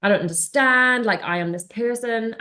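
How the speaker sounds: emphatic inner complaint, lightly dramatised; retold turmoil. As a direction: act out bewildered frustration. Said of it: "it was, like, turmoil".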